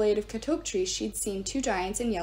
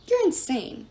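higher, louder shout; 10 semitones higher, 4 dB louder than usual. A narrator's reading. Piper shouts at Gaia, furious. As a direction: hurl it back at her. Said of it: "she shouted".

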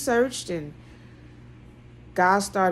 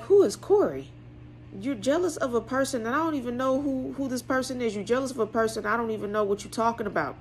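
high, puzzled, rushed at the end; pushing back in disbelief; bewildered protest; 4 semitones higher, faster than usual. Retold or imitated. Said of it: "And I'm like".

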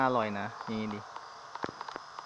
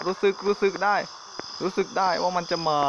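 scared; 5 semitones higher than usual. Real, not acted. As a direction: voice climbs with dread. Senses monster coming, scared.

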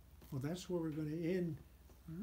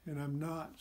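dejected; 4 dB quieter than usual. Acted. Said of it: "Snap said dejectedly".

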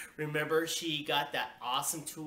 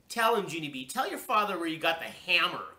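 mildly loud, stern order; a touch of angry growl; mother's growl; 4 semitones higher, 6 dB louder than usual. A narrator's reading. Mother orders daughter to confess, mildly growling. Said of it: "growled Mother".

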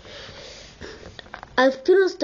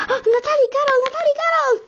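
yelling names; 12 semitones higher than usual. Acted. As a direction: bellow for your friends to come. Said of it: "Nie drzej tak gęby".

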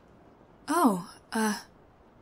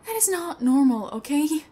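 louder, pressing the point; exasperated; 2 semitones higher, 5 dB louder than usual. Real, not acted. Intruder scolding the homeowner who won't call the cops, louder. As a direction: push it hard, then the okay. Arguing with captor.

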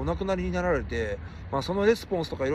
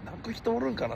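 higher musing repeat; 5 semitones higher, 4 dB quieter than usual. Real, not acted. Streamer asking chat if anyone would cry, higher and softer.

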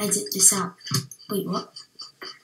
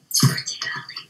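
quiet voice; much faster than usual. Real, not acted. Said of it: "I sound quiet".

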